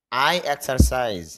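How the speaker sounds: drawn out, word by word English example; very slow model phrase. Shown as a demonstration. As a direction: stretch it out for the learner. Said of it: "যেমন". (খুব ধীরে টেনে টেনে উদাহরণ)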